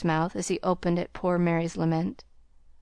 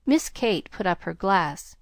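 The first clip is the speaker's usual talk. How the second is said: plain reading voice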